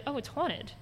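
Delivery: lightly imitated coaxing father; enticing dad. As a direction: dangle it like a juicy secret. Father luring child with haunting.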